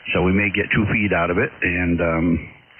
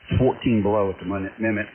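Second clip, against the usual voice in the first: frozen lips. Real, not acted. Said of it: "I can't even talk. My lips are frozen".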